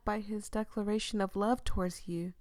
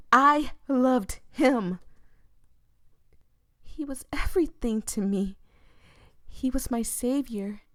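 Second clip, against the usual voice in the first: grieving outcry; 5 semitones higher, 5 dB louder than usual. Acted. Voya crying out her love for Crow, anguished. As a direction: wail the loss.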